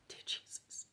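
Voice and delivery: breathless whispered prayer; stunned whisper. Real, not acted. Storyteller stunned by the reveal, whispered. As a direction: gasp it under your breath.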